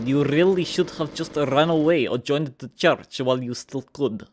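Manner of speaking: a hint of a cold villain, taunting; lightly voiced menacing villain Rev.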